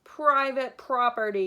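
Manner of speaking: loud barked warning; grumpy cactus yelling; yelled. Acted. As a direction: yell it to drive them off. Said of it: "yelled Hank".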